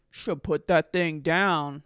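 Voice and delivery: slow, badly faked Irish accent; attempted Irish accent. Uncle telling of a dog that nipped him, poor Irish accent. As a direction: have a half-hearted go at an Irish accent. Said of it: "I can't do an Irish accent".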